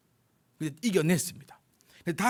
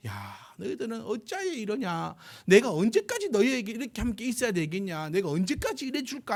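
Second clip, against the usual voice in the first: rebuking teacher; 5 semitones higher than usual. Retold or imitated. Jesus rebukes the disciples.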